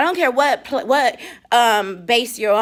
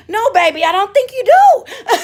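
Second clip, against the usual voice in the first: laughing reply; 12 semitones higher, 4 dB louder than usual. Retold or imitated.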